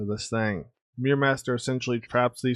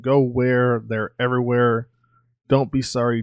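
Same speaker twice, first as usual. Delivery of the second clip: louder, panicked Linda; a raised, frantic cry mid-fight; frantic shout; 6 dB louder than usual. Acted. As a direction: yell it while surrounded. Linda voiced amid clone attack.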